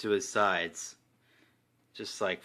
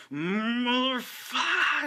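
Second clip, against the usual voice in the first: high, slow, drawn-out mock roar of fury; rage yell; 13 semitones higher, much slower than usual. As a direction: stretch the curse like a berserker's war cry. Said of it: "He's just like".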